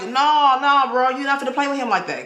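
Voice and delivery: loud, high warning; emphatic scolding. Pretend. Warns people not to play with God, loud and firm. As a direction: shut the idea down hard.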